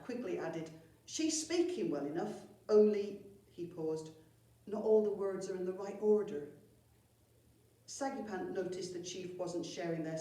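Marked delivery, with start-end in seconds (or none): 1.0-6.5 louder goblin voice with a dramatic pause on only; smooth it over for the boss, pausing mid-excuse; goblin explaining. Acted.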